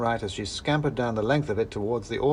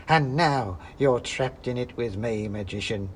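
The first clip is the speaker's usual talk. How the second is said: cackling witch. Acted. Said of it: "she actually cackled".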